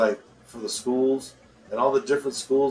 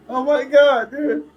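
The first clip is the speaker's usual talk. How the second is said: breathless from laughing; laughing hard; 6 semitones higher, 7 dB louder than usual. Real, not acted. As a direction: talk through the giggles. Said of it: "I'm laughing".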